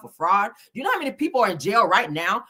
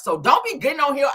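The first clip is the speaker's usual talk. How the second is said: shout; 6 dB louder than usual. Real, not acted. Final warning to viewers.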